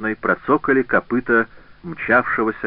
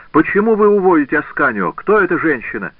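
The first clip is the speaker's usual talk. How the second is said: higher, louder burst of questions; crying out; 7 semitones higher, 4 dB louder than usual. A narrator's reading. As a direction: cry out, demanding to know what is happening. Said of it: "кричала она". (выкрикивая вопросы высоким голосом)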